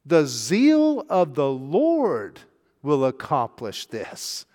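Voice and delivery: slow, weighty stress on zeal; emphatic slow. Real, not acted. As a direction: draw out zeal of the Lord. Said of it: "I'm saying that with emphasis".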